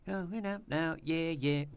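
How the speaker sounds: breathless after singing; winded, gasping between words; out of breath. Real, not acted. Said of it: "I'm just running out of breath".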